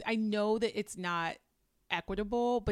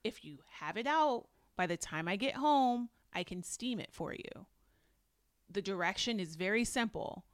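very calm. Retold or imitated. Retelling Jasmine instructing her husband, very calmly. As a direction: spell it out calmly, with pauses between steps. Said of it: "Jasmine very calmly says".

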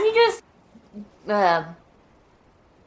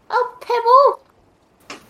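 high, slow and laughing; laughing delight; 11 semitones higher, much slower than usual. Real, not acted. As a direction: savour the little win. Finds pebble, laughs.

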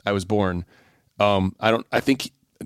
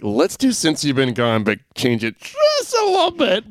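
producer impression; 7 semitones higher, slower than usual. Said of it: "whoever produced it was like".

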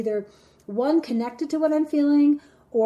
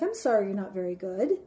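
condescending sorry; 4 semitones lower, 5 dB quieter, faster than usual. Acted. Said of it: "and someone's like".

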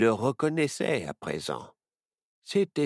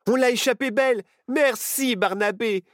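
relieved joy; 13 semitones higher, 6 dB louder than usual. A narrator's reading. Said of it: "dit Nao en serrant son ami".

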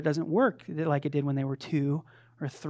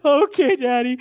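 put-on high, louder little-kid voice; a chirpy small child agreeing; mock toddler; 8 semitones higher, 8 dB louder than usual. Preacher imitating his toddler answering daddy, high. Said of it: "And they say".

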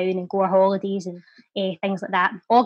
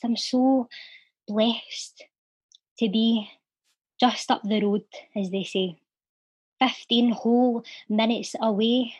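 measured spoken-word poem with long pauses; poem recital. Acted. Podcast guest reciting his Celtic poem, heartfelt spoken word.

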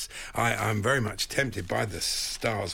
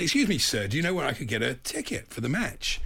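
lightly imitated American accent; polite stranger in imitation American. American asking for match tickets, lightly imitated accent. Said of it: "I'm gonna do the accent".

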